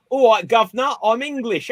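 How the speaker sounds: over-the-top fake Cockney accent; bad Cockney impression. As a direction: ham up a terrible Cockney. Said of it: "he did, like, the worst".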